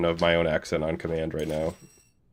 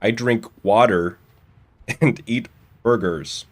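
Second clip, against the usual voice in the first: mock American accent; 3 semitones higher than usual. Shown as a demonstration. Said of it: "let me see if I can do one".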